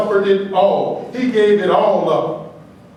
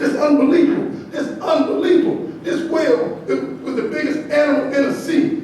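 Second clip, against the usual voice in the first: raised pitch, marvelling in disbelief; mock amazement; 3 semitones higher than usual. Speaker to wife at SeaWorld, mock amazed. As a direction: act stunned by the trained whale. Amazed rant at whale show.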